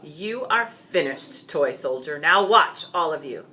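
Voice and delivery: menacing villain taunt, building to a loud "Now watch"; a dragon sneering at his victim; gloating dragon. Acted. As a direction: gloat over the beaten knight.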